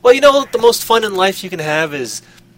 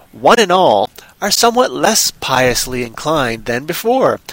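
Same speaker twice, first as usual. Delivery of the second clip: measured, deliberate storytelling read; story narration. A narrator's reading. Host reading a comic Poe tale to listeners, story narration. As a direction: read it out with careful phrasing and pointed pauses.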